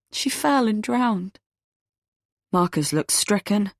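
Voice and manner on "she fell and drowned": slow stunned repeat. Acted. Eve repeats uncle's words.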